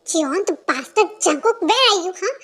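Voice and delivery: loud furious call for him; angry yelling. Acted. Girlfriend yelling for Jungkook who left her, furious shout. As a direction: yell at him, enraged.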